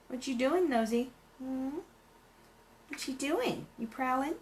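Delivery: high, sing-song coo to a pet. Real, not acted. Painter cooing at her black cat, high baby talk.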